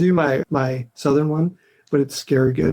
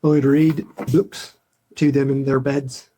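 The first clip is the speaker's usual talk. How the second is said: unhurried put-on Irish lilt; imitation Irish storyteller; Irish accent. Shown as a demonstration. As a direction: demonstrate a gentle-paced Irish accent. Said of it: "that's pretty good, actually".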